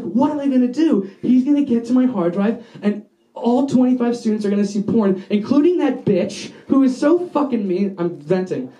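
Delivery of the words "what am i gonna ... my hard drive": retold panic, pitched up; mild mock panic, rushing into worry; freaking out. Student fearing the teacher sees his drive, freaking out. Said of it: "I start freaking out".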